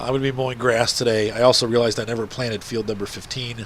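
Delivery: stuffy, congested voice; talking through a blocked nose. Real, not acted. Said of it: "you can hear from my voice".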